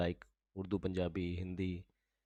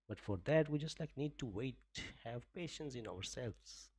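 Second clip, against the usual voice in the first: put-on softly spoken, lilting English accent; 3 dB quieter than usual. Streamer playing an Englishman while reading the gold chart, put-on English accent. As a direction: play at an English accent with swooping intonation. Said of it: "like, a English accent".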